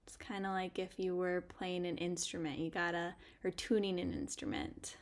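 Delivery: gentle meditation guide with long pauses; guided meditation. Acted. Podcast host guiding listeners to pause and notice, guided meditation. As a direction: lead listeners inward, leaving space between phrases.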